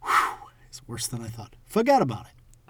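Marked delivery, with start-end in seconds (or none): 1.6-2.7 high, loud New York mobster; New York mob voice. Shown as a demonstration. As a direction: punch it like a New York wiseguy. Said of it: "New York mob voice".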